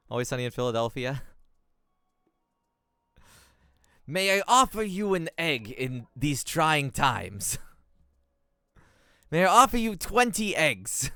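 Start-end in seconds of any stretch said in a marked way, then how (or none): 4.0-7.6 slow, loud, hammed-up sitcom delivery; mock-grand offer, drawn out; quoting a sitcom line. Gamer quoting Always Sunny to the queen, hammed-up and slow. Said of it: "what's the quote from Always Sunny". 9.3-11.1 higher, louder hammed-up offer; sitcom quote parody. Gamer reworks the sitcom quote for twenty eggs, loud and hammed-up. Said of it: "what's the quote from Always Sunny".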